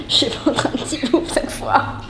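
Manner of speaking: laughing. Real, not acted. Laughing while taking bite.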